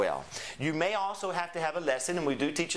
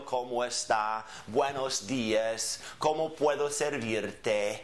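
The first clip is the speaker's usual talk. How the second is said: slow demo phrases; 4 semitones lower, slower than usual. Shown as a demonstration. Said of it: "get some phrases together".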